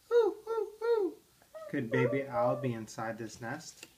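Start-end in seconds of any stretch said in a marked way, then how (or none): 0.1-1.1 very high owl hooting "hoo, hoo, hoo". Acted. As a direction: hoot like a baby owl. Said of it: "she heard a faint".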